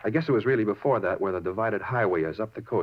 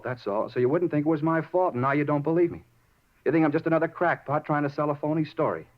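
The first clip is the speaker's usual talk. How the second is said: upset pleading; 5 semitones higher than usual. Acted. Suspect pleading with disbelieving detectives, rising upset voice. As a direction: push hard to be believed, voice rising.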